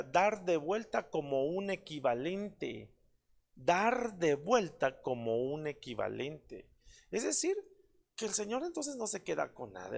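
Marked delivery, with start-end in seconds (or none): 3.5-6.7 slow, deliberate definition; slow emphatic repeat. Shown as a demonstration. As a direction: spell out the meaning slowly for the congregation. (repetición lenta y enfática)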